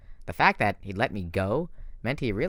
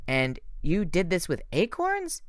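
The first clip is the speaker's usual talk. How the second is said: put-on higher, slow incredulous girl; can't believe what she hears; disbelieving; 8 semitones higher, slower than usual. A narrator's reading. Bianca doubting Grover's acorn spell, higher and incredulous. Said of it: "like she couldn't believe it".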